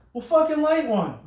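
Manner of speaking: put-on an old boss daring the new hire; bossy order. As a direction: push him to light up. Boss ordering him to smoke.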